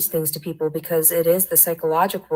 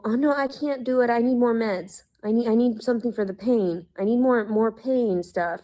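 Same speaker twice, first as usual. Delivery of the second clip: higher, whining mock of the mother; mocking whiny mother; 4 semitones higher than usual. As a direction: imitate a complaining mom begging for meds. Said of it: "telling people".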